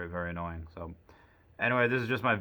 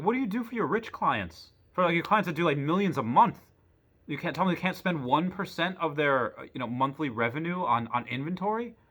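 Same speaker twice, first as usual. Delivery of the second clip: incredulous pleading; 7 semitones higher than usual. Retold or imitated. Arguing with bank clerk.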